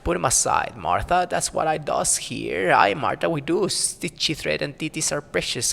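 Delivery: lightly voiced old crone, muttering to herself; a hint of a grumbling crone; mumbling old crone. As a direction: play a cranky old hag talking to herself. Marta explains her trade.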